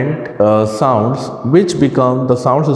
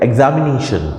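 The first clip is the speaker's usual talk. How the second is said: एग्जामिनेशन with ने raised, then falling; pitch rise on NE; faster than usual. Shown as a demonstration. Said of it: "high हो जाती है".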